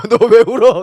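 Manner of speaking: high, loud, through laughter; laughing question. Retold or imitated. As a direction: try to ask while laughing. Asking crying child, laughing.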